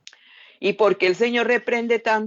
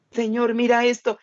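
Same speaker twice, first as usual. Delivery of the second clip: higher, urgent pointing out; anxious plea; 5 semitones higher than usual. Acted. Troubled believer pointing the Lord to the problem, anxious. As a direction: demand the Lord look, worried.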